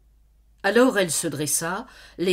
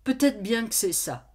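trembling with shame; 5 semitones higher than usual. Acted. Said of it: "tremblant de honte".

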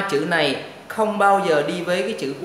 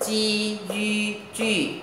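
very slow, drawn-out chanted spelling; đánh vần thật chậm; slow spelling drill; 3 semitones higher, much slower than usual. Shown as a demonstration. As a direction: drag each syllable out for pupils to copy. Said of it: "các em đọc theo này".

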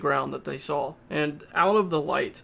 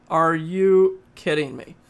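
louder and slower exasperated repeat; louder, slower disbelief; 5 dB louder, slower than usual. Retold or imitated. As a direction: lean in hard on the second time, exasperated. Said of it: "And I'm like".

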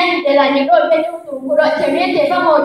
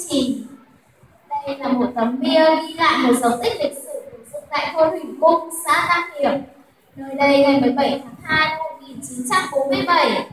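formal presentation to judges; formal speech. Acted. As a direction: address the jury formally.

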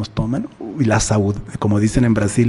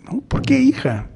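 surprised father; 12 semitones higher than usual. Acted.

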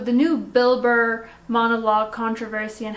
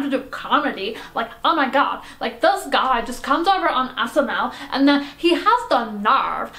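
lightly voiced outraged Karen; triggered Karen. Karen tells the host she is triggered by a monologue, indignant rant. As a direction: rant as a mildly hammed-up offended activist. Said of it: "a friend of mine who is very triggered".

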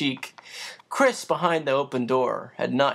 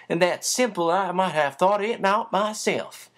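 put-on hearty country housekeeper praising the boy; Becky the housekeeper; 2 semitones higher than usual. Housekeeper Becky praising young Chris, lightly voiced admiring.

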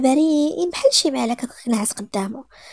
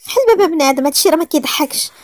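louder, higher angry shout; 4 semitones higher, 4 dB louder than usual. Acted. Nayra shouting at him to open the door, angry. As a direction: yell it, fed up and trapped.

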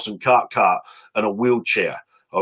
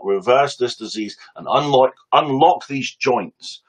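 prayer; slower than usual. Retold or imitated. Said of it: "That was his prayer".

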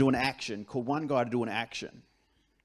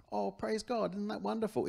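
higher, bright churchy "praise God" gush; mock pious cheer; 6 semitones higher, 3 dB quieter than usual. Stepdad's imagined gushing, a mock pious praise. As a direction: parody a gushing churchgoer, pitched up. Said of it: "it's not".

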